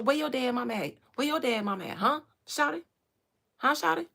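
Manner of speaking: loud, hyped Atlanta street voice; Atlanta rapper voice. Retold or imitated. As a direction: imitate a hyped A-Town rapper. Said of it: "That's King".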